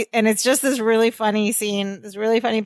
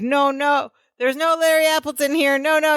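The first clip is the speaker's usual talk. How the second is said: higher-pitched pleading yell without much volume; mild mock scream; 5 semitones higher than usual. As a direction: imitate a frantic scream, held back. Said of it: "he's screaming".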